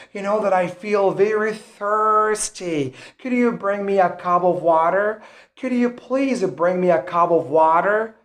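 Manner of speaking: rhotic American R in "thirsty" and "water"; American accent. Shown as a demonstration. Teacher showing learners the R sound, American accent. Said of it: "the R sound in the American accent is rhotic".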